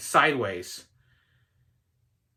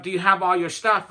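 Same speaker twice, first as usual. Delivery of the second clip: mock Southern accent, slightly pitched up; a hint of put-on Southern accent; 4 semitones higher, 3 dB louder than usual. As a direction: lightly imitate a Southern airline helper. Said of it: "talked to me in a Southern accent".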